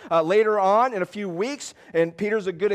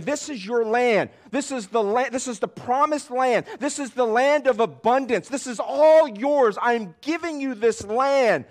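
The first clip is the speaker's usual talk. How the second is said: high, insistent preacher's declaration; proclaiming as God; 7 semitones higher, 4 dB louder than usual. Acted. Voices God giving the land.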